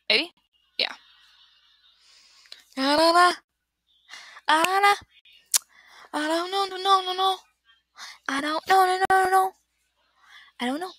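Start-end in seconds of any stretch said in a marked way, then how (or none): 2.8-10.9 high, silly sing-song whine. Pretend. Dodging the Pope question, silly high sing-song. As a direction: chant it playfully high.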